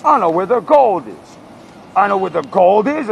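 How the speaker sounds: high, loud mock-aggressive rap; hyper aggro. Imitating Hitler rousing a crowd, hyper aggro bad rapper. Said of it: "he's, like, hyper aggro".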